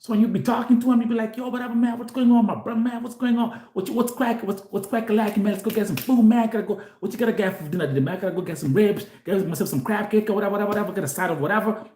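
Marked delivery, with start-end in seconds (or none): 1.4-11.9 quick, higher-pitched Black American casual talk; Black American accent. Retold or imitated. Chatting to a friend about dinner, imitated Black American accent. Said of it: "they speak English different".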